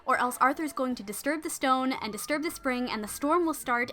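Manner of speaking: pleading. Acted. Maid begs her lady to reconsider, earnest pleading. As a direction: plead with her to trust you. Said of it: "Lunette says".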